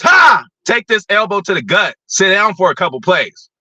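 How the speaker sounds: mock trash talk. Acting out a trash-talking player.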